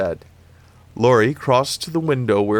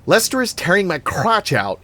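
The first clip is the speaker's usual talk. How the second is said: high, loud shriek; 10 semitones higher, 4 dB louder than usual. A narrator's reading. Annie shrieks to Laurie about the dog. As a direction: shriek it out in distress. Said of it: "Annie shrieked".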